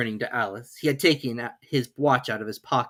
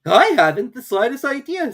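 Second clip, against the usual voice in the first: louder, higher cheerful admission; Hatter; 12 semitones higher, 10 dB louder than usual. A narrator's reading. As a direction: shrug it off. Hatter voiced.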